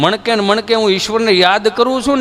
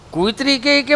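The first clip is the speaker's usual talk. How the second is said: ordinary talk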